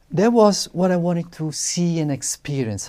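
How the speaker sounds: ordinary talk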